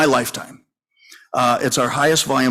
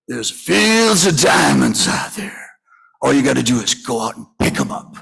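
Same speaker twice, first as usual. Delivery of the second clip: E J's big voice. Retold or imitated. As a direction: boom it out like a big old mentor giving advice. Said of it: "great big man with a deep voice".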